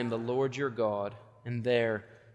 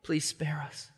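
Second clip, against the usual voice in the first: mumbled desperate prayer; 3 semitones higher, 4 dB quieter, slower than usual. Retold or imitated. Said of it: "all they can manage in their hearts is to mumble to God".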